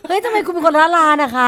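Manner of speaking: laughing while teasing; amused, teasing laugh; laughing tease. Real, not acted. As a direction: laugh through the question. Laughing at co-host's claim.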